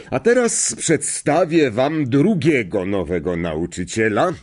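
headmaster making a formal introduction; a hint of a headmaster's announcing voice; lightly voiced headmaster. Headmaster introduces a second new teacher, lightly voiced announcement.

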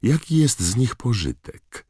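lightly acted high-pitched taunt; mild put-on Malfoy challenge; challenging question. A narrator's reading. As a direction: ask it high, doubting their use.

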